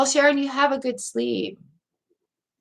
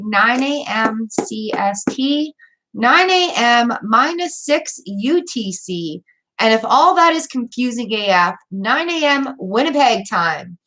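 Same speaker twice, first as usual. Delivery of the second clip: slow careful time read. Real, not acted. Spelling out stream times.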